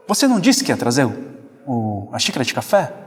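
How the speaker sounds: fast, pushy question; a quick, irritated demand; impatient asking. Shown as a demonstration. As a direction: press the wife about the coffee. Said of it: "Já é uma maneira".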